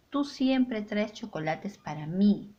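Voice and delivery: Tú and mí both hit clearly, with a lively rising tune; stressed tú and mí. Shown as a demonstration. Teacher showing how stressed Tú and mí sound. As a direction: lean on Tú and land on mí. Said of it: "¿Ves cómo cambia la entonación?".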